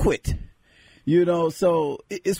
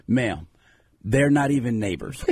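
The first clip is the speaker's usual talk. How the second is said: put-on lower, dropped-accent American voice; 4 semitones lower than usual. Man corrects lady on Jamaica, back in American accent. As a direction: drop back into your own American accent. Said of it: "I turned to American me again".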